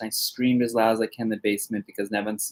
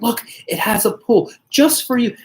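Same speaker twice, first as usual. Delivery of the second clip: slow, high coaxing voice; mother-in-law tempting husband with a pool; 9 semitones higher than usual. Retold or imitated. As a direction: sweet-talk him into the house, slowly. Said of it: "And he's like".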